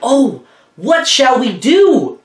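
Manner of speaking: slow, worried moan of the creatures. Acted. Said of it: "the night creatures moaned".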